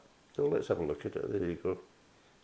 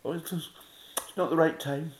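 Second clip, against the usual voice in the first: mock reluctance; 9 semitones higher, 4 dB louder, slower than usual. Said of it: "their attitude's like".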